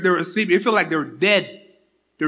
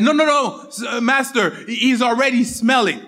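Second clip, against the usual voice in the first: protesting; 4 semitones higher than usual. Acted. Martha objecting, acted in story.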